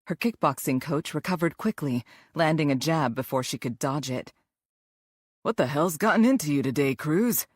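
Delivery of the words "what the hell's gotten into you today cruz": talking around a mouthguard; mouth guard in. Acted. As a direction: speak with a mouthguard in. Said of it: "he said around his mouth guard".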